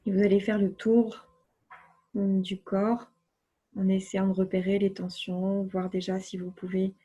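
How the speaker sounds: unhurried relaxation voice with long silences; guided relaxation. Acted. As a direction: guide the body to let go, phrase by phrase. (voix posée de relaxation guidée)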